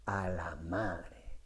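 low, slow, very soft freeze; frozen mumble. Retold or imitated. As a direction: choke it out dazed and faint. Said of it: "cada vez que le ponen un micrófono".

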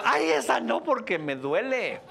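high, loud, hammed-up wail of heartache; mock pained cry. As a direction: ham up a lovesick wail. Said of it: "la gente ... dice". (lamento dolido exagerado y agudo)

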